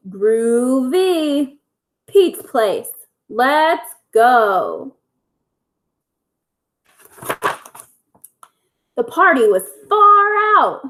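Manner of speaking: lively bedtime story reading; reading to children. A narrator's reading. Teacher reading a bedtime story to her pupils, lively storytelling. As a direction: read it like a picture book for little kids. Reads picture book aloud to kids.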